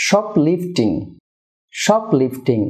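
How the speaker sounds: শপলিফটিং with weight on "SHOP"; stress on shop. Shown as a demonstration. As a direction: hit the first syllable of শপলিফটিং, then fall. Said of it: "শপে stress হবে". (শপলিফটিং-এর "শপ"-এ জোর)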